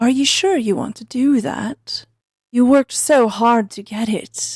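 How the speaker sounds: calm, composed, almost polite voice. The narrator voices an incarnation speaking to the players as coin is scattered: calm, polite voice. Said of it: "You hear a calm voice, polite almost".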